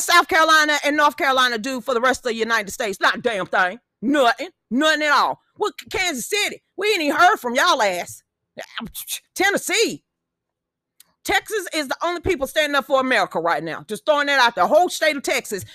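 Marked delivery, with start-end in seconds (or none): 5.6-10.0 calling out. Real, not acted. Calling out rival barbecue cities.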